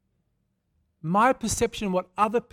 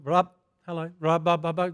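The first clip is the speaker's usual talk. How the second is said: speaking in tongues; 6 dB louder than usual. Retold or imitated. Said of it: "I'm speaking in tongues".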